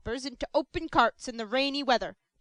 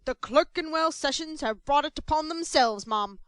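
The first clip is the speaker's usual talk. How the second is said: loud, threatening pronouncement; menacing; 4 semitones higher, 6 dB louder than usual. Acted. Mr Bumble threatening the Clerkenwell sessions, loud and menacing. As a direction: menace them with every word. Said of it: "menacing manner".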